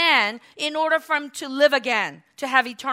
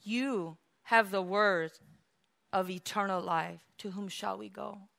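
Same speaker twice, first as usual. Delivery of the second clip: tender confession; 7 semitones lower, 11 dB quieter than usual. Acted. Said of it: "What did Peter say".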